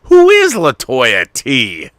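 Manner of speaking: astonished. Real, not acted. Amazed to hear his cohost met her, a high loud question. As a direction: jump way up in pitch, truly caught off guard.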